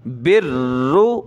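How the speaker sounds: बिर्रु with a hard doubled र; firm doubled r. Shown as a demonstration. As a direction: hit the र of बिर्रु firmly. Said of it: "सख्त करेंगे उसको". (बिर्रु में र को सख्त पढ़ें)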